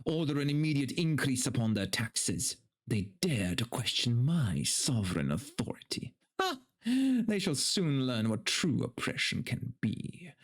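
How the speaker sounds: a lightly voiced haughty tyrant, slowing and rising at the end; arrogant lord. The lord scorns his peasants, lightly voiced arrogance. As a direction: play a mild hint of a sneering noble.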